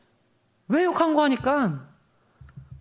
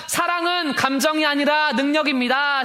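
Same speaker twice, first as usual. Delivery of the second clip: preacher's declaration; 2 semitones higher than usual. Shown as a demonstration. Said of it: "마지막으로 선포하겠습니다".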